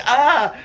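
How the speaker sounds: short, high "ah"; quick mock battle cry; imitated yell. Reenacting sudden grab into headlock.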